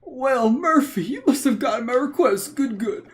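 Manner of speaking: put-on old man voice. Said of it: "the old man voice".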